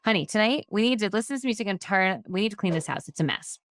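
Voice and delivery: firmer, bossy order to the husband; wife bluntly orders her husband to clean the messy house; demanding tone. Shown as a demonstration. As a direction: tell him what to do, no softening.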